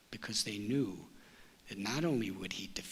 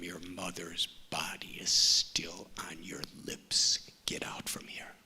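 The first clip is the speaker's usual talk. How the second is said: put-on lower, scornful grown man looking down at a child; arrogant debate champion; 5 semitones lower than usual. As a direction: sneer at the little boy from above. Arrogant champion scolds the boy.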